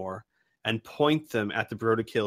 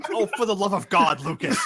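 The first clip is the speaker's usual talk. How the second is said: fast, louder, fed-up cry of the name; exasperated outburst; 7 semitones higher, 6 dB louder, faster than usual. Acted. Robot losing patience with the voice in its head, exasperated. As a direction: snap at him in exasperation.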